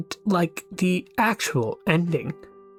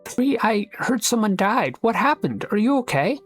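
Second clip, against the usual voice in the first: higher-pitched anxious concern; worried questioning; 9 semitones higher than usual. Acted. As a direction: check urgently on a friend after bad news. Checks on a bereaved friend.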